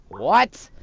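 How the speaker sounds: loud, high shocked outburst. Acted. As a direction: blurt it out, stunned. Shocked at changing schools.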